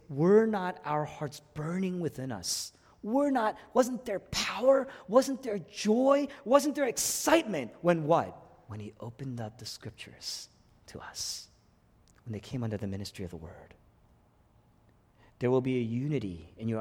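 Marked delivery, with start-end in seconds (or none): 0.1-7.7 rising higher with each question, slowed; awed recollection. Retold or imitated. Disciples recalling their burning hearts, rising in awe. 8.7-13.4 dropped to a whisper, much softer; hushed. Acted. Preacher recalling the disciples' words in a hushed whisper.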